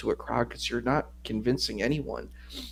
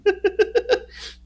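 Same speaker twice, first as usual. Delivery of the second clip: high squeaky laugh; delighted high laugh; burst of laughter; 4 dB louder than usual. Real, not acted. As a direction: laugh at the joke. Laughs at Glass Joe joke.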